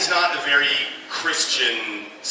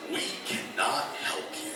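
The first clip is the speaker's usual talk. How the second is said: app voice; 4 semitones lower, 10 dB quieter than usual. Retold or imitated. App refusing, quoted.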